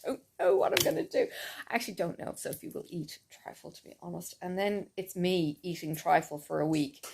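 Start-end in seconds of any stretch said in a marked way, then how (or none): 0.0-4.4 quiet aside. Real, not acted. Aside about trifle.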